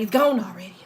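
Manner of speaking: breathy whispered aside. Acted. Teasing an ex who let her go, whispered. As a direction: whisper it like a secret slipping away. Teasing ex, ass walking away.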